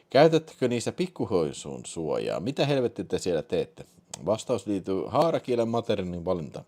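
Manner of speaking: plain reading voice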